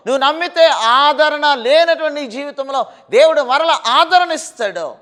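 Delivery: loud, driving preacher's call; fiery sermon delivery; full-force preaching. Acted. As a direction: proclaim it to the whole congregation. Preacher addresses listeners at full force.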